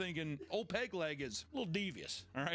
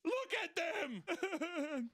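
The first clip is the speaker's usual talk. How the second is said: mock horror; 14 semitones higher, much slower than usual.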